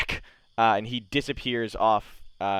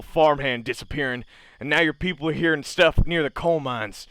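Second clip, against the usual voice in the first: put-on drunk man arguing; 5 semitones higher, 5 dB louder than usual. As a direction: bellow it like a drunk in a bar brawl. GM voices drunken argument.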